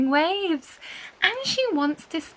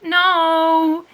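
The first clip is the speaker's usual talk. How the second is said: flat refusal; 6 semitones higher, 8 dB louder than usual. A narrator's reading. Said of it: "says Chocolate".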